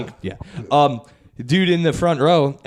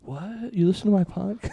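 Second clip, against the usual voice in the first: surprised excitement; 5 semitones higher, 8 dB quieter than usual. Retold or imitated. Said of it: "He was like".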